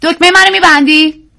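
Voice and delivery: a woman asking her husband for help with her button; woman's voice. A narrator's reading. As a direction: ask sweetly as a busy wife. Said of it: "زنی گفت".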